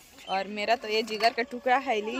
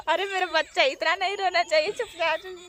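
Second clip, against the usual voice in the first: laughing hush; 4 semitones higher than usual. Real, not acted. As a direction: giggle through the shushing. Hushing crying baby, laughing. (हँसते हुए बच्चे को चुप कराना)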